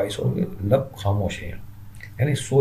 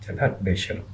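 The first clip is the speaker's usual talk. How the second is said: shy rebuff; 4 dB quieter than usual. Acted. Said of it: "फुलवा एकदम शर्मा जाता है".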